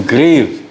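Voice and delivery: "ग्रेव" with the final व barely sounded; almost silent V. Shown as a demonstration. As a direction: let the व at the end of "ग्रेव" nearly vanish. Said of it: "व है ये almost silent रह जाता है". ("ग्रेव" का आख़िरी व लगभग साइलेंट)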